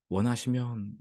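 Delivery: mildly deferential, careful request; polite request. Retold or imitated. Leper not wanting to trouble Jesus, polite tentative request. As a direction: ask courteously, not wanting to impose. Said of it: "이렇게 정중히 말했는데".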